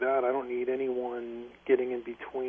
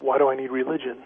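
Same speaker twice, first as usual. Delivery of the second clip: louder repeat of the question; raised volume, even pitch; speaking up; 5 dB louder, faster than usual. Real, not acted. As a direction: speak up so the host can hear. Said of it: "Could you speak a little bit louder".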